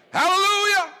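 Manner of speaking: high ringing shout of praise; shouted hallelujah. Real, not acted. Preacher whipping the congregation into a shout. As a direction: shout it out to the rafters. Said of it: "Somebody ought to shout right now".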